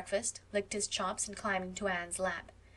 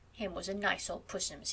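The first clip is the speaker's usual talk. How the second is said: put-on cooing baby talk to a pet; lightly done pet-talk; 3 dB quieter than usual. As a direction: coo it over the cat defiantly. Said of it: "vowed Anne".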